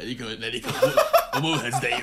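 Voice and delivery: devil's whisper. Retold or imitated. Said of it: "悪魔のささやきだ".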